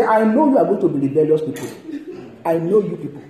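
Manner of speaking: scolding Moses, lightly acted; lightly mimicked Moses. Preacher mimics Moses rebuking the people, mock scolding. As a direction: act out an accusing prophet with amusement. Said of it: "please don't talk like Moses".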